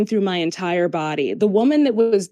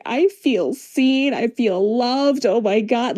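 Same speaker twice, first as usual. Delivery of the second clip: retold sobbing; 2 semitones higher, slower than usual. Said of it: "and I just start sobbing".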